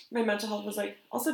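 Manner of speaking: a dry, crusty throat. Real, not acted. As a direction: speak through a dry throat. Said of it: "disclaimer, my throat is so dry today".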